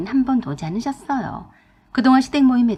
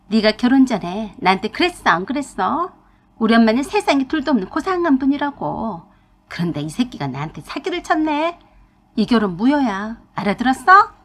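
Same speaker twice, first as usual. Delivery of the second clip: retold fuming yell. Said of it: "씩씩거리며 소리를 질러댔어요".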